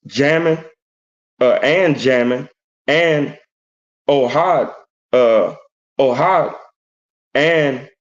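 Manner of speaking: slow, deliberate verse reading; scripture reading. Acted. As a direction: read each phrase out solemnly, with pauses. Reads scripture aloud.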